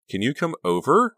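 high, loud, rising invitation; eager friend coaxing on the phone. A narrator's reading. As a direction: ask with bubbling eagerness. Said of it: "Honey asked eagerly".

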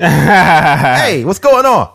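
hammed-up New York Italian accent; Italian mobster. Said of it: "Italian mobster".

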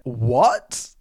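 high, loud, stretched-out mock outrage; hammed-up incredulous rant, word by word; shocked disbelief. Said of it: "instantly I get whiplash".

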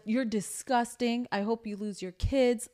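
slow, cold mock scorn; a hint of a cruel brother; imitating brother's scorn. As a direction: spit it out slowly. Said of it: "He's like".

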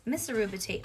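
usual speaking voice

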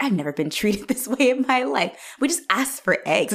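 mock indignant, pitched a little up. Visitors protesting after asking for eggs, mock indignant. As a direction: imitate someone putting on wounded offence. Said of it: "they're very indignant".

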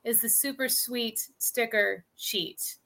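slow, deliberate tongue twister; slow careful phrase. Shown as a demonstration. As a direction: say it slowly and carefully. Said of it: "never be able to say fast nor slow".

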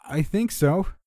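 loud, high answering yell; yelling back. A narrator's reading. Friend answering narrator over the winds, yelling. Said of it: "he yelled back".

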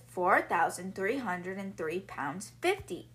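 each number laid out slowly; patient, slowed-down repetition of the sum; slow repeat. Retold or imitated. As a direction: say it again, slowly and deliberately. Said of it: "can you say that again".

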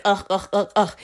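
short, repeated sick groans; grunted ughs of feeling unwell; queasy groans. Retold or imitated. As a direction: mimic feeling ill with little ughs. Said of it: "I didn't feel good".

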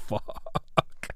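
whispered, breathy "Fuck" held back; imitating a suppressed curse, whispered; stifled curse. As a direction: swallow it like a hiccup of laughter. Stifled reaction to a joke.

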